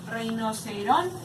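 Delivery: RINOCERONTE slowly, drawn out up to RON, with TE held back; rinoceron... te, slow and deliberate; syllable-by-syllable demo. Shown as a demonstration. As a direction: stretch rinoceronte and lean on ron. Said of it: "el acento en la palabra".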